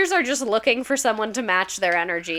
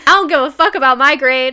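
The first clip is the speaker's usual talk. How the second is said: mock teen defiance; 4 semitones higher, 9 dB louder than usual. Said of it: "They would be like".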